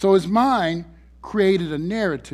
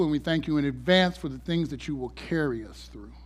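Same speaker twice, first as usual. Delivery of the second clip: prayer. Acted. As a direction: pray it humbly and earnestly. Leads a prayer.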